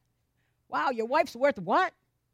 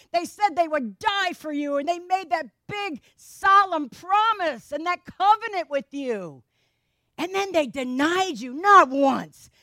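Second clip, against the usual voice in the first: pleading objection; 3 semitones higher than usual. Acted. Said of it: "but I would say".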